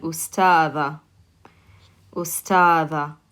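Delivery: ustada, ending on an open a; teacher modelling ustada; model word. Shown as a demonstration. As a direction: sound out ustada slowly. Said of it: "I simply add a ta marbuta".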